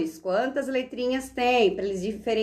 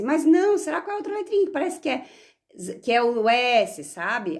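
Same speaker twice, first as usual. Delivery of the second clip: dúvida fingida. Retold or imitated. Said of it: "professora questionando as crianças".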